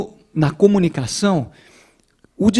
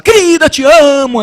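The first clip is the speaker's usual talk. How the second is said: higher, much louder barked declaration; shouted love; 8 semitones higher, 8 dB louder than usual. Retold or imitated. Husband mock-yelling love to his wife, loud and high. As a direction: bellow the tender words comically. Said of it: "E uma mensagem de amor, como é que você fala?".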